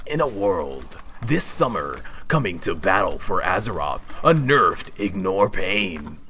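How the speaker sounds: a light movie trailer announcer, slowing at the end. Shown as a demonstration. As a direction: drop into the blockbuster narrator for the punchline. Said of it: "I can do the movie guy voice".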